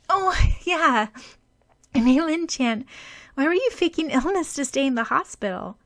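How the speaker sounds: put-on a girl suddenly remembering a question; curious question. A narrator's reading. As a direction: ask it brightly.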